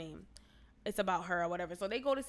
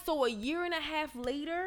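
higher, rising questioning tone; incredulous reply; 5 semitones higher than usual. Retold or imitated. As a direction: question it in disbelief. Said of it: "I'm like".

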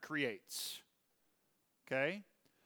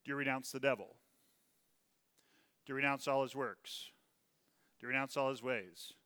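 tame modern rite. Shown as a demonstration. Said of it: "Now what's left is".

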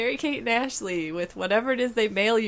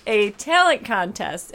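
laughing; 2 semitones higher, 6 dB louder than usual. Real, not acted. Laughs recalling talent contest.

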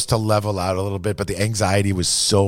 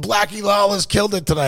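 put-on drunk voice; 12 semitones higher than usual.

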